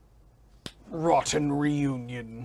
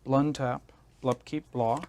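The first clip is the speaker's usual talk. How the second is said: vampire blah talk; 4 dB louder than usual. Pretend. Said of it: "I want to stop talking like this".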